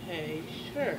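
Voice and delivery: low, very quiet retold reply; small, reluctant okay; hesitant agreement. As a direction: agree warily, dropping right down. Retold reluctant reply to odd question.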